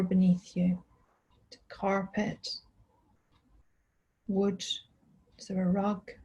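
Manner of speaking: unhurried body-scan guidance with long pauses; calm, spacious mindfulness voice; guided meditation. Real, not acted. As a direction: guide them gently through the body, leaving space after each phrase.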